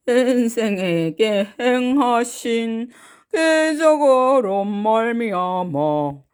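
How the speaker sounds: a hint of an old grandpa; 살짝 낮게 시작한 할아버지 흉내; 할아버지 목소리. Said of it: "할아버지 목소리를 할까요". (가볍게 흉내 낸 할아버지 목소리)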